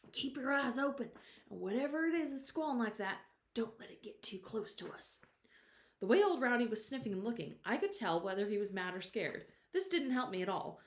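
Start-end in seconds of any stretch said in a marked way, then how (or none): 0.1-5.2 hushed urgent whisper to the dog. A narrator's reading. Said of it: "I whispered".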